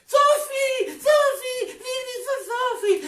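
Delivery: high, loud greeting call; cheerful shout-out. Real, not acted. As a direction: hail her across the room. Calling out greeting to viewer.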